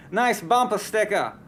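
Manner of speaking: weak attempt at a Boston accent. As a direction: try a Boston accent, not quite. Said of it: "I don't have a very good Boston accent, but I try".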